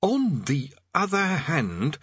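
high, slow rushed cut-in; quick interjection. Acted. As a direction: cut in fast to change course. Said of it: "said Rincewind instantly".

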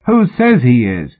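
shrill, disbelieving cry. A narrator's reading. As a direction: challenge it shrilly. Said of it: "Tom shrilled out in the silence".

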